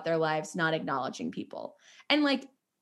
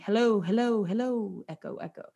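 calling into emptiness, fading away; imitated echo. Calling into an empty ballet school, echoing. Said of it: "It looks like a zombie apocalypse".

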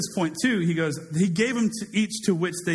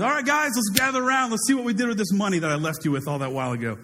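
a lightly voiced, upbeat boss gathering his staff; master calling the servants; 4 semitones higher, faster than usual. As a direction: call them in like a cheery boss. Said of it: "Master comes back, goes".

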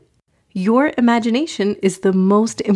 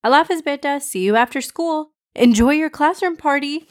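higher-pitched, affectionate mom voice; lightly voiced mother, pitched up; mother's goodbye; 6 semitones higher, faster than usual. Mom sending her child into school, lightly voiced higher mother.

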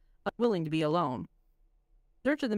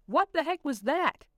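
slow, higher, shaken exclamation; exclaimed; 8 semitones higher than usual. Acted. Lamont to his friends after escaping, slow and high in shock. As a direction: blurt it out in shock. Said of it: "he exclaimed".

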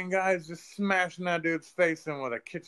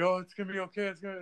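mock comforting; 6 semitones higher, much faster than usual. Retold man comforting dying girl.

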